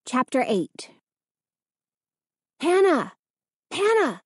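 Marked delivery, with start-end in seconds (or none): 2.6-4.2 shout. A narrator's reading. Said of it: "Its whisper became a shout".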